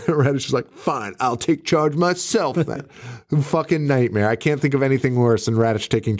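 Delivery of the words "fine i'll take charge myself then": a hint of a pompous hero; mock resolute. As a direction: slowly declare you'll handle it. Voicing Radish taking charge.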